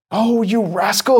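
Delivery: cried indignantly. Acted. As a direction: scold the boy, outraged. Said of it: "he cried indignantly".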